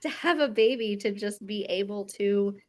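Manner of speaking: holding back tears, pushing on; teary. Real, not acted. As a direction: voice thick with tears. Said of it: "I'm just gonna cry this whole podcast".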